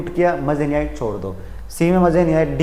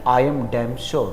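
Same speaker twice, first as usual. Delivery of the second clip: mock common wrong phrase; 4 semitones lower, 6 dB quieter, much slower than usual. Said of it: "ninety nine percent लोग क्या बोलते हैं".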